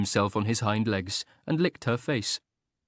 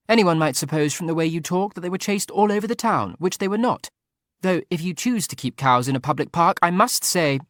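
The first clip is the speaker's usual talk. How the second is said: Frederica's voice; 8 semitones higher, 5 dB louder than usual. A narrator's reading. Frederica protesting to the Marquis.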